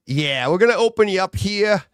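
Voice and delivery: put-on an unbothered surgeon, without a real accent; breezy British doctor. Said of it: "your doctor comes in with a British accent".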